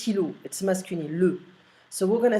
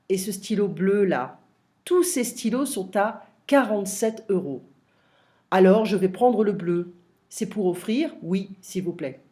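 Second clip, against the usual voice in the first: dialogue read-through. Shown as a demonstration. Reads textbook shop dialogue aloud.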